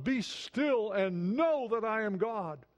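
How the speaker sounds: slow scripture quote. Acted. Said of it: "As he says in another psalm".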